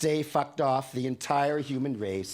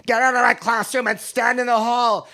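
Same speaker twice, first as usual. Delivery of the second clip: loud, higher enraged shout; top of his lungs; 9 semitones higher, 9 dB louder than usual. Retold or imitated. Teacher throwing the boy out, shouting at full lungs. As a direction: roar the order across the class. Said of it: "at the top of his lungs".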